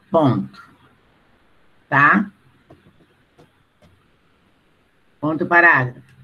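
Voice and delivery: slow, spaced-out dictation; dictating. Acted. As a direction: dictate each phrase so students can write. Teacher dictating to class.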